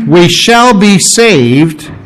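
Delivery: SHALL stressed, whole phrase slow and drawn out; emphatic. Acted. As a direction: read it slowly, weight on "shall". Emphatic reading of verse.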